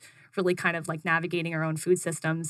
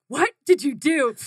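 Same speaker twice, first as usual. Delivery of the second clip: higher, louder, lightly voiced suspicious mother; mock wary mom; 6 semitones higher, 5 dB louder than usual. Mom answering her daughter, a mock wary question. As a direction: play the mom bracing for trouble.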